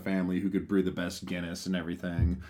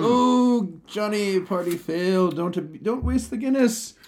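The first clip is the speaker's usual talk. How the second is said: much higher and louder, a hammed-up pub drinker; mock drunk pub voice; 12 semitones higher, 4 dB louder, much slower than usual. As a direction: ham up a rowdy drinker begging to save his beer.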